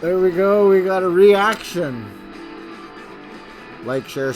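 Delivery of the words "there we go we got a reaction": excited. Real, not acted. Vlogger thrilled at the reaction.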